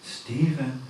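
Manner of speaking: calling coworker close, gentle; gently calling. Retold or imitated. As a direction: call him in tenderly. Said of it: "calling to him".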